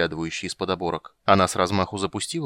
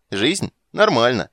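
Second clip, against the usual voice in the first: grinning; 3 semitones higher, 8 dB louder, slower than usual. Acted. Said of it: "осклабившись, проговорил Трубадур".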